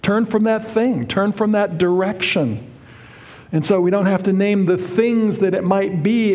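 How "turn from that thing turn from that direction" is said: God's command. Acted. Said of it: "God says".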